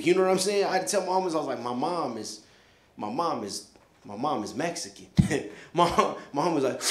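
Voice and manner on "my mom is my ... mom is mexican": hesitant confession. Retold or imitated.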